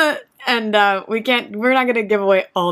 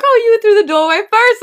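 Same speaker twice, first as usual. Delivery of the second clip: higher, louder mock friendly voice; chatty cheerful impression, pitched up; imitating him; 13 semitones higher, 6 dB louder than usual. Retelling the intense man chatting, in a higher, louder voice. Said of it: "He's like".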